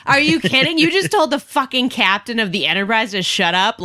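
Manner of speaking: incredulous retold telling-off; retold outrage. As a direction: act out a fan's disbelief at a heckler. Acting out outrage at heckler.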